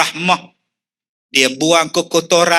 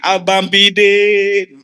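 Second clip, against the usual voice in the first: slow, drawn-out mock weeping call; mock sobbing call; much slower than usual. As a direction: wail the husband's name. Weeping divorcee calls ex-husband. (panggilan sayu yang dipanjangkan)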